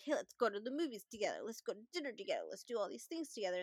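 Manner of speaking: put-on quick, eager childlike rush; childlike eagerness. Imitating Brian's childlike invitations, fast and eager. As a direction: rattle it off like an excited kid. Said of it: "very childlike the entire time".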